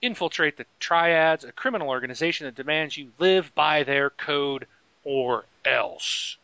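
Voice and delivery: big dramatic trailer read; movie trailer voice. Acted. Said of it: "I should be doing movie voiceovers".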